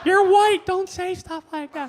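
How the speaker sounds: indignant shout. Acted. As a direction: snap back outraged. Black guy retorts in story.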